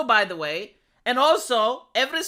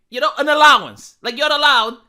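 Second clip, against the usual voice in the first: sarcastic emphasis; 3 semitones higher, 9 dB louder than usual. Acted. Sarcastic punchline on allowance.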